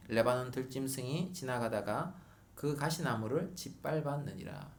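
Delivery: slow, deliberate Bible reading; scripture reading. Acted. Preacher reading the verses to the congregation, slow and solemn. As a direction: read the verses slowly and solemnly. Reads scripture aloud slowly.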